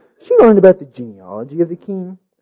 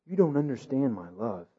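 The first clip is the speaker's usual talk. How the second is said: sad king; 4 semitones lower, 15 dB quieter than usual. A narrator's reading. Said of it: "he replied sadly".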